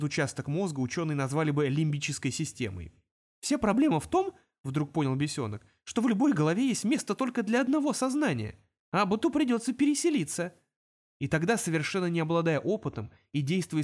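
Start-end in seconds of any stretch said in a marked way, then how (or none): 3.4-10.5 imp realizing. Acted.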